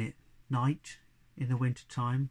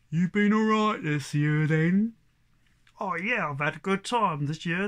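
raised, loud rustic animal voices; chatting farm animals; 4 semitones higher, 5 dB louder than usual. Acted. Cow and donkey chatting at midnight, loud rustic animal voices. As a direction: gossip like two old beasts in a shed.

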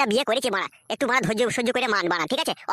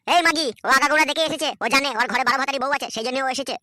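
angry shout; 3 dB louder than usual. Acted. Husband shouting in acted quarrel.

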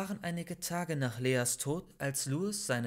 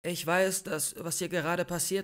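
pleading; 4 semitones higher, 4 dB louder than usual. Acted. Maike pleads with armed friend.

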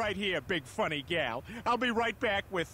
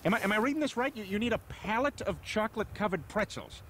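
incredulous; 3 semitones higher than usual. Acted. Man reading an absurd food order, incredulous. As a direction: stumble over it in disbelief.

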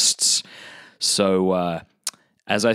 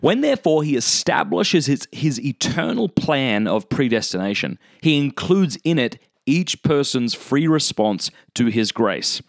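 measured, deliberate reading of a text; solemn quotation with drawn-out key words; formal reading aloud; 3 semitones higher than usual. Acted. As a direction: read it out slowly, phrase by phrase. Reads a quoted text aloud.

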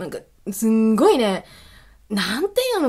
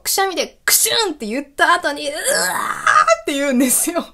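higher, a hint of a crying wail; imitated pained wail; 6 semitones higher than usual. Describing her sore-throat sneeze, a mild pained wail. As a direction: mimic the groan of throat pain.

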